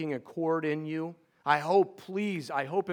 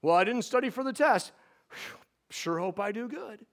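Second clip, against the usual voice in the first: higher, flippant worried-student voice; mock nervous student; 6 semitones higher than usual. Preacher mocking shallow hope with a hammed-up nervous student. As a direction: play a student who skipped studying.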